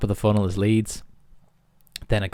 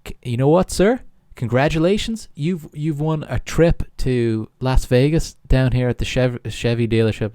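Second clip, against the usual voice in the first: higher, louder mock prize announcement; lying phone salesman; 5 semitones higher, 5 dB louder than usual. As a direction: sell a fake win big, imitating a pushy caller. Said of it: "he is lying down the phone".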